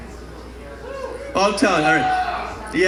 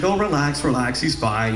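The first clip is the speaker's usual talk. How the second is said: calming; 5 dB quieter than usual. Retold or imitated. Dad calming the panicking mom.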